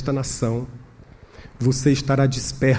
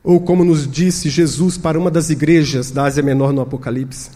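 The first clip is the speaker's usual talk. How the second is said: usual speaking voice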